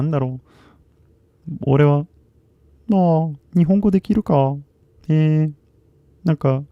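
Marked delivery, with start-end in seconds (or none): 2.9-5.5 anime voice. Retold or imitated. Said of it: "アニメの声に聞こえるか".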